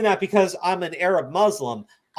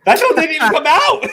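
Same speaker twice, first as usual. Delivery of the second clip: higher, louder, disbelieving; incredulous emphatic repeat; 9 semitones higher, 7 dB louder than usual. Real, not acted. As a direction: say it again, amazed.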